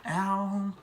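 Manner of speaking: high-pitched rowdy whoop; retold party scream. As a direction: holler like a hyped-up Pride reveler, without full volume. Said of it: "screaming like".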